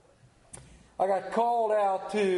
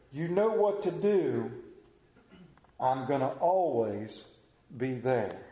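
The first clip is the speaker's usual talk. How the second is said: recited verse; 4 semitones lower than usual. Acted. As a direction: recite each line on its own, voice sinking at the ends.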